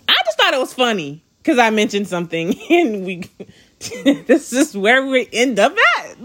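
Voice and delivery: laughing through the words; amused. Real, not acted. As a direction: break into a chuckle mid-sentence. Amused retelling of the texts.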